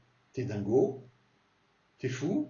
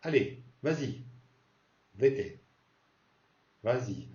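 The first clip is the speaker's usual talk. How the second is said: a hint of mom ordering you to homework; nagging mother; 2 semitones higher than usual. Mother telling her kid to do homework, mild scold. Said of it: "Ta mère, par exemple, qui te dit".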